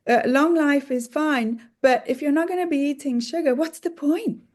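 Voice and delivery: mock dismissive. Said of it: "people who are like".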